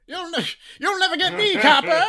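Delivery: put-on high old gangster movie voice; exaggerated cartoon intonation. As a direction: snarl it like a 1930s movie gangster. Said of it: "why are you talking like that".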